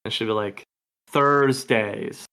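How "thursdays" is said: Thursdays with a firmly pronounced American R; hard American R. Retold or imitated. Quoting the actress ordering in an American accent, hard R. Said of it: "I just gotta hit the hard R".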